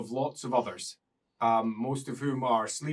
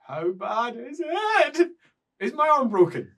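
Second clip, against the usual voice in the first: worried; 10 semitones higher, 4 dB louder than usual. Acted. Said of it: "small moment of".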